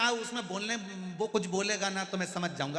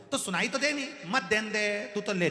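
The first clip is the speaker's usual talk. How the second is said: insistent; 6 semitones higher, 6 dB louder than usual. Retold or imitated. दादाजी ज़िद करते हैं.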